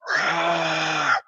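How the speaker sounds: breathy mock roar of a distant crowd; imitated crowd roar. Player recreating the crowd they heard, imitated roar. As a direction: imitate the din of a crowd in one long noise. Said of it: "you heard this".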